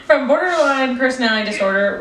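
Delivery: reading through giggles; laughing. Real, not acted. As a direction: fight back laughter.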